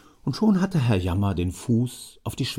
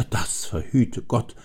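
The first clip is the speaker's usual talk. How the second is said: a slow mild sigh; old man sighing, slow; slower than usual. Acted. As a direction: sigh it out slowly. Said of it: "seufzte Herr Jammer".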